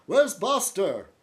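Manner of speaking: high, excited mock voice of a neighbor; lightly voiced friend calling out; imitating Nick. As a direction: neighbor asking about the dog, high and eager. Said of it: "he'll say".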